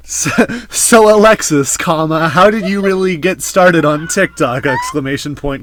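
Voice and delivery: dictating punctuation aloud, deliberate and projected; voice-to-text dictation. Pretend. Host asks guest a question, voice-to-text dictation. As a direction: speak as if to dictation software. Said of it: "speak like we're using voice to text".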